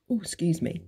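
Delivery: hiccup breaking the words. Real, not acted. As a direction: talk through a little hiccup. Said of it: "um, hiccuping, burping".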